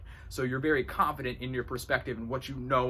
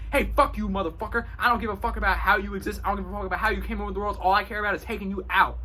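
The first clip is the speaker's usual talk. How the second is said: higher, louder mock tirade; acted yelling; 6 semitones higher, 4 dB louder, faster than usual. To whoever broke the wall, acted angry yelling. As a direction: rant at them full of threat, hurrying midway. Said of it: "yell at a person. I'm not gonna be like".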